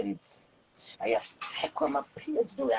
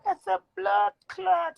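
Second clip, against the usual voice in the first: mocking girl's voice; 10 semitones higher than usual. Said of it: "they me seeing about".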